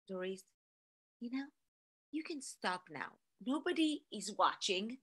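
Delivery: soft, coaxing self-talk; quiet inner voice. Retold or imitated. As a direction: murmur it like a temptation to quit. Tempting inner voice, telling herself to quit.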